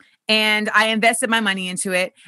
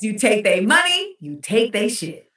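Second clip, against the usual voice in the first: quoting mom. Retold or imitated. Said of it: "My mom always says".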